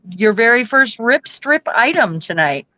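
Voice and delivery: talking with a pin in the mouth; words around a pin held in the lips; mouth full. Real, not acted. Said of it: "Sorry, I had a pin in my mouth".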